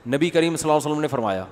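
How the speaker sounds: fast, slurred صلی اللہ علیہ وسلم run together; rushed durood. Retold or imitated. Mufti mimicking people who rush the blessing, slurred. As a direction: gabble the blessing like it's a chore. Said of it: "ارے تمیز سے بول دے یار".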